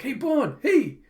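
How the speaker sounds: high, loud mock shout; calling after him. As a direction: call urgently after a runaway dog. Yor calls after runaway dog.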